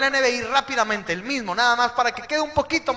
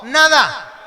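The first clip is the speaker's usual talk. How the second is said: loud call; 2 semitones higher, 7 dB louder than usual. Shown as a demonstration. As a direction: shout NADA for the crowd to echo. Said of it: "Otra vez diga conmigo".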